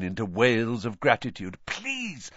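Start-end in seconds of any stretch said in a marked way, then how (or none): 1.7-2.3 high, hushed plea; urgent soft pleading, kept down; frantic whisper. A narrator's reading. Harry begging Dobby to be quiet, frantic whisper. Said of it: "Harry whispered frantically".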